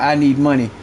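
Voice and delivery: low mock "I need money"; mocking the viewer. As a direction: parody his plea. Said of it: "talking about".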